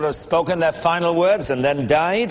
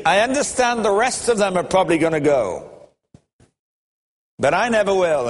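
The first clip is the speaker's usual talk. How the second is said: indignant protest; 4 semitones higher than usual. Retold or imitated. Peter protests to Jesus, lightly voiced indignant insistence. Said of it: "was indignant at that".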